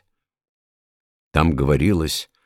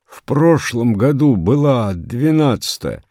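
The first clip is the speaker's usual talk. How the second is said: raised, high-pitched protest in a strained voice; hoarse protest; 8 semitones higher, 3 dB louder than usual. A narrator's reading. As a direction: protest that it was ДВЕНАДЦАТАЯ, voice pushed high. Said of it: "сказал он хрипло". (хрипло, высоко возражая)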